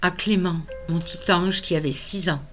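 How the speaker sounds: measured verse with emphatic key words; earnest poem recitation. Acted. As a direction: recite a solemn vow, pausing between lines. Reads own poem aloud.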